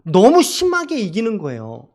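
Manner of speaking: ordinary talk, nothing marked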